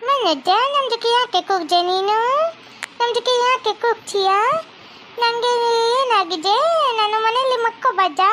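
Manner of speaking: put-on slow, high, broken Kannada with a Chinese accent; Chinese girl accent. Chinese girlfriend asks Manoj why he shouts, in a Chinese accent.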